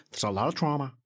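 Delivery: half-hearted politician impression; Donald Trump. Shown as a demonstration. Podcaster joking about sounding like Trump, weak impression. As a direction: attempt a weak Trump voice, not fully committed. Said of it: "I can't do a Trump impression".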